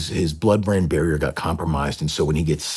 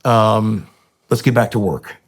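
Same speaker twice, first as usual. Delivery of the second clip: high, loud, fast celebration; gushing mock vindication; imagined triumphant announcement; 8 semitones higher, 5 dB louder than usual. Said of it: "the Navy and N S W would be like".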